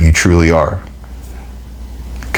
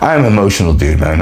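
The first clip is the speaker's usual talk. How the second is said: laughing it off. Real, not acted. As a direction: chuckle at himself. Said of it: "getting emotional".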